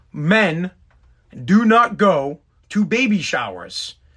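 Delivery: very slow, deliberate, word-by-word delivery. Telling the men listening to play the audio for their wives, very slow, deliberate. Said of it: "I'll say it slowly".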